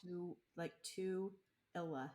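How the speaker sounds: Tooele split into TOO and ILL-uh; broken-down pronunciation. Shown as a demonstration. Breaking down the town name for a learner, syllable by syllable. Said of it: "it's pronounced Tooele".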